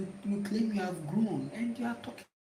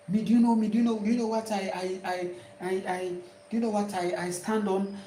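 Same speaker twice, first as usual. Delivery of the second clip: louder, fast indignant challenge; mock indignant; 4 dB louder, faster than usual. Offended person demanding respect, fast and loud. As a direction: fire back like an offended elder. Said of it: "They are like".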